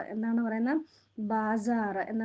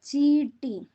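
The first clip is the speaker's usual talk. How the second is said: ചീട്ടി said louder, firmly falling; emphatic repeat; 3 semitones higher, 5 dB louder, much slower than usual. Shown as a demonstration. Teacher to pupils, repeating the word firmly. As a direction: hammer the word ചീട്ടി home. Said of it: "എന്താണ് പറയുന്നത്?".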